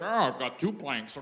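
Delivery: mock a skier, tailing off into mumbles; mock skier impression. Snowboarders doing an impression of a skier, mocking voice. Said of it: "do an impression of a skier".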